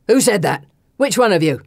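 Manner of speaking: loud, frightened demand; scared shout. Acted. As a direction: shout in panic. Miller frightened.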